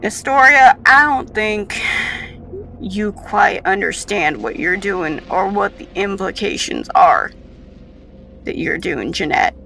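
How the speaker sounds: loud, lightly voiced admonishing scientist; a touch of grave reproach; stern colleague.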